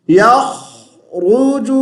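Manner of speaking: یخرج chanted slowly, "yakh-ruju", long rasped kh; heavy kha and ra. Shown as a demonstration. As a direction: hold the kh of یخرج, then a full rolled r. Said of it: "خا اور را کو موٹی آواز سے".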